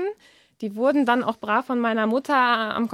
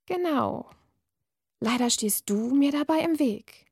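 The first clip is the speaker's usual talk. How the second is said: uncanny voice; 3 semitones higher, slower than usual. Acted. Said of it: "Die Stimme klang seltsam unmenschlich".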